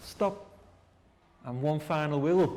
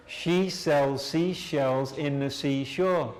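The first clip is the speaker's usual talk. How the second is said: slowly; slower than usual. Shown as a demonstration. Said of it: "we will do slowly".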